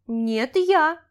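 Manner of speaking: put-on loud childlike retort rising high; competitive little boy. A narrator's reading. Child racing his sister indoors, contesting shout. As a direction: argue back, jumping up loud and high. Brother contests being first.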